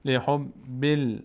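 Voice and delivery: slow, drawn-out chanted Arabic recitation; slow Quran recitation. Shown as a demonstration. Teacher slowly reciting the verse for the student, chanted. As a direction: stretch every syllable as in tajweed. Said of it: "teacher recites verse".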